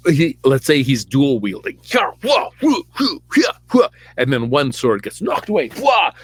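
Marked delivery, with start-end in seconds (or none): 1.8-3.9 high, sharp mock sword-swing shout; fighting yell. Storyteller playing Saul swinging swords, mock fighting yell. Acts Saul dual wielding. 5.7-6.1 high, sharp mock sword-swing shout; fighting yell. Storyteller playing Saul swinging swords, mock fighting yell. Sword gets knocked away.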